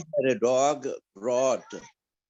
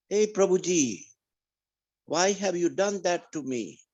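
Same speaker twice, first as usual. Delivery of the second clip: higher, pleading cry to the Lord, retold; mild retold lament, pitched higher; crying out to God; 5 semitones higher than usual. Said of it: "And I cried out".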